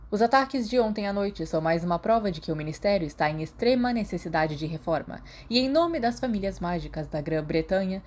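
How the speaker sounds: a hint of haughty politician; pompous statement. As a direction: read it like an arrogant official. Malfoy statement read.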